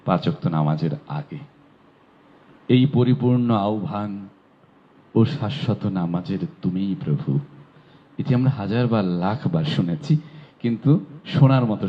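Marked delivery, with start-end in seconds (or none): 2.7-7.4 stately recited quote; solemn broadcast recitation. Shown as a demonstration. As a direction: intone it like the call before prayer on radio. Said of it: "radio টেলিভিশনে কিন্তু শুনেছি".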